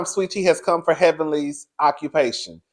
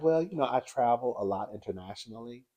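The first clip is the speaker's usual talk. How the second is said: mock Phaedra; 5 semitones lower, 14 dB quieter than usual. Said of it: "Phaedra was like".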